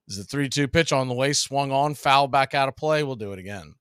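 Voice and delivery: steady play-by-play announcer read; play-by-play call. Acted. Announcer calling the count to the stream. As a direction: call the pitches like a broadcaster. Live play-by-play between story bits.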